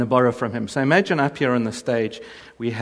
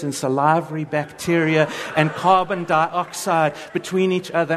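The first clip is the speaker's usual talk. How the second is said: wife's reply; 3 semitones higher than usual. Retold or imitated. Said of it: "imagine she responds".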